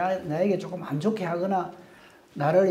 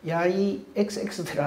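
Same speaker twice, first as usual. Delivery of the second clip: mock insult; 3 dB quieter than usual. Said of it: "하지 않습니다".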